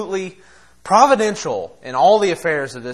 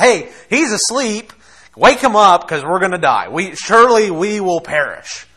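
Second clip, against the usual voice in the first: higher, louder frightened plea; mock-terrified disciples, raised voice; panicked disciples; 4 semitones higher, 5 dB louder than usual. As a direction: wake the master, we're going to die.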